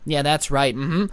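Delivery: lightly voiced entitled Karen reporting to 911; a hint of a prissy complainer, pitch jumping up at officer; mock Karen call. Karen calling 911 about a YouTuber, lightly mocking. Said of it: "how would that nine one one call go".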